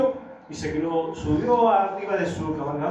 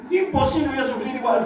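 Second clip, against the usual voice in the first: mock whiny lament; 6 semitones higher than usual. Mocking the friend's gloom.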